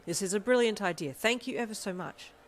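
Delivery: loud, elated thanks; happy exclamation. A narrator's reading. Ida thanking his brother for a brilliant idea, happy exclamation. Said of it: "exclaimed happily".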